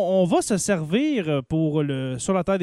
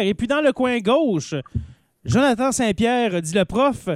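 fighting game announcer; 3 semitones higher than usual. Pretend. Announcing contestants like a boxing match.

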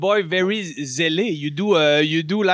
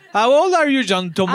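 mock Santa; 3 semitones higher, 4 dB louder than usual. Santa asks child's age.

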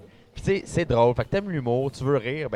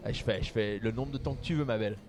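put-on French accent. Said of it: "Tu prends l'accent en France?".

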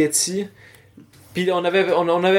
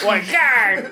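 monster growl; 2 semitones higher than usual. Acted. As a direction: growl like a waking yeti. Yeti coming out growling.

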